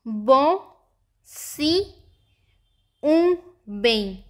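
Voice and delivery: बों, सी, ऊ, बें hummed out through the nose; nasal sounds. Shown as a demonstration. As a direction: repeat बों, सी, ऊ, बें slowly with nasalised vowels. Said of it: "मैं फिर से repeat कर रही हूँ".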